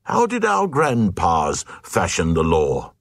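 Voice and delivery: a high indignant crowd cry, then settling; mock outraged shout of the mob; hammed-up huffy protest. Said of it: "the Glugs cried".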